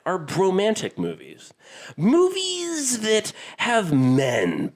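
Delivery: swooping pitch with stretched, portentous phrasing; affected presenter voice. Pretend. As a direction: savour every word like a grandiose announcer. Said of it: "I don't know why I'm talking like this".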